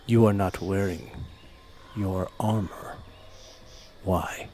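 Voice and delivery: halting creature questioning in broken Common. Acted. Creature questioning a stranger about armor, halting broken Common. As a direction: break it into short phrases, lightly in character. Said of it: "in very broken common".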